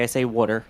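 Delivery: "water" with a Jersey vowel; "water" in a Jersey accent; Jersey pronunciation. Shown as a demonstration. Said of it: "I say it the Jersey way".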